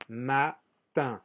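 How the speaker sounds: Matin, in two parts with a nasal vowel ending. Shown as a demonstration. Teacher showing students the French word for morning, nasal ending. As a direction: say Matin with a nasalized final -in, the n unsounded. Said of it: "soy de una sal".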